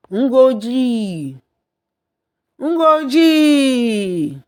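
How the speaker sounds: a mother calling her son from afar, rising each time. A narrator's reading. Mother calling her son from the spirit world, rising calls. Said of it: "heard his mother's voice call".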